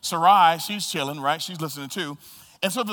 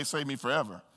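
quiet plea; 5 semitones lower, 8 dB quieter than usual. Acted. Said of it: "The other one would say".

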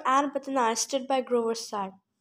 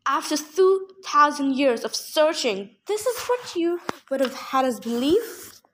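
crying out in protest; 2 semitones higher, 4 dB louder than usual. Acted. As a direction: drag out his disbelief before the crowd. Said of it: "Silenus cried".

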